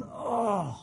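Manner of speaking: a long groan, then mild lament; understated wailing complaint; mock moaning. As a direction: lightly act out grieving over sin. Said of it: "moaning and going".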